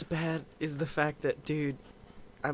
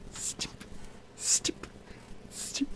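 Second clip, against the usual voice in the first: whispered snipping sounds; 8 dB quieter, much slower than usual. Pretend. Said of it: "you're just making snipping sounds".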